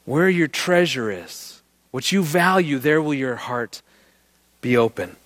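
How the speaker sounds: slow, drawn-out, stressing "Where" and "there"; slow emphatic restatement. Shown as a demonstration. Speaker driving home the verse after the story, slow and emphatic. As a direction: spell out "Where your treasure is" slowly, word by word. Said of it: "that's what he's doing".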